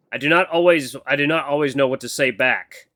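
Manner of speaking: lightly voiced formal mentor; stiff. Mentor admitting he lacks replies, mildly stiff. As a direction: give it a hint of stiff, careful formality. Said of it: "His stiff manner of speaking".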